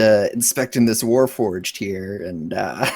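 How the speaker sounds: put-on slow, unconvincing Irish accent; failed Irish accent. Player inspecting the Warforged in character, failed Irish accent. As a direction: badly attempt an Irish accent. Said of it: "That's not an Irish accent".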